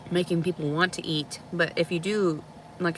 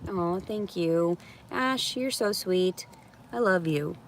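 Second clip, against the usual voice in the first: tender thanks; 4 dB quieter, slower than usual. Real, not acted. Thanks a kind viewer.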